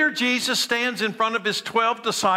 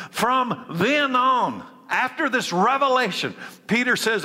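building intensity; 6 semitones higher than usual. Real, not acted. Preacher building the revelation.

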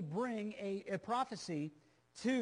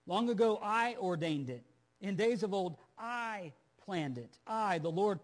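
loud, slow, commanding; booming proclamation; 6 dB louder than usual. Acted. Preacher booming God's reply to the Assyrian king. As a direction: proclaim it like God declaring judgment.

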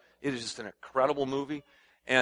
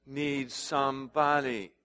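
call and response; slower than usual. Shown as a demonstration. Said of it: "say with me".

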